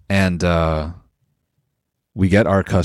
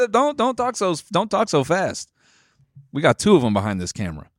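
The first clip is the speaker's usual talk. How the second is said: high mock voice; 7 semitones higher than usual. Brother imitated.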